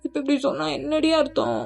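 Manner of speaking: desperate pleading. Acted. Husband begging his silent wife, high desperate plea.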